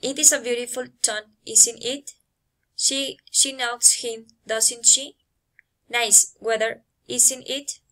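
"isn't it" and "doesn't she" lifted at the end; level statement, then tip "isn't it" and "doesn't she" upward; tag question intonation. Shown as a demonstration. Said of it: "falling or rising intonation".

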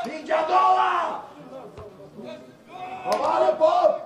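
shouted orders. Real, not acted. Coach ordering Pop back for second ball, shouted. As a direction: bellow instructions over the pitch.

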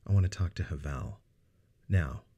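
serious. Acted. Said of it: "growing serious again".

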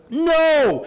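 loud, high no; emphatic no. Real, not acted. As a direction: burst out with the answer. Preacher answers his own question.

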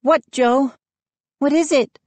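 high, concerned questioning; soft demand. A narrator's reading. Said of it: "Mindy demanded softly".

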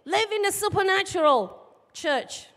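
full-force pulpit exhortation; preaching. Acted. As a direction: rouse the congregation, push it up high. Opening exhortation to church.

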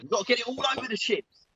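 panting while doing the moves; breathless from the exercise; out of breath. Real, not acted. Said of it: "I'm out of breath now".

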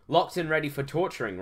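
a hint of military briskness. Soldier reporting captives to a superior, lightly military. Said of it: "replied a military-like voice".

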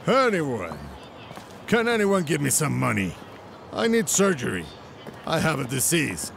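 pleading for money; begging. Acted. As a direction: call out to passers-by, begging. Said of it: "won't have to beg anymore".

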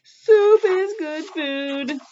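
slow ad slogan; announcer voice. Pretend. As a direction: read it like a TV ad. Ad slogan aside.

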